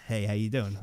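awkward dad voice. Retold or imitated. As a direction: ease in like an uneasy father. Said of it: "He goes".

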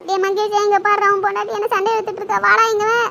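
loud, complaining summons; calling out. Acted. Mother summons son to witness his wife's quarrel, calling out. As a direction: call your son over urgently.

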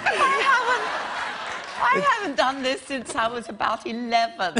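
squeaky high helium voice with laughter; cartoon-high chipmunk voice. Real, not acted. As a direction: talk through a lungful of helium. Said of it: "if your voice sounded the same, on helium".

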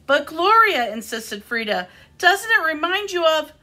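animated picture-book reading with lifted character lines; expressive storytime delivery; reading to children. A narrator's reading. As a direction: read a story aloud to little listeners.

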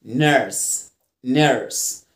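"نيرس" said "nurse" with an er vowel; low, falling "نيرس" with the er sound held. Shown as a demonstration. Teacher models UR for learners, "نيرس" with er. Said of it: "ال يو آر دايمًا بنطقها إر".

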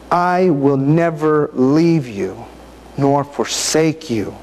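slow, each word given weight; slow savoring reading. Real, not acted. Preacher lingering on the verse for listeners, slow and deliberate. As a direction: let the promise sink in slowly. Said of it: "Think about what they're saying".

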